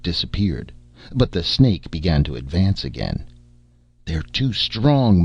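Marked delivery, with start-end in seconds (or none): 4.1-5.2 slow, higher, hopeless moan; moaning despair. Acted. Brunei moaning to the crew that they cannot hold. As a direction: drag it out like all strength is gone. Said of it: "moaned Brunei".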